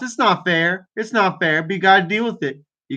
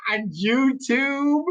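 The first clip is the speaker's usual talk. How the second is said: amused exclamation; 7 semitones higher, 5 dB quieter, much slower than usual. Real, not acted. Amused exclamation at the troll's pun.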